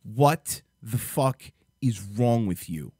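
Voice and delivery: slow, controlled real fury; livid. Real, not acted. Vlogger confronting the parents on screen, livid. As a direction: space the words out with heavy stress. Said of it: "I'm fucking livid".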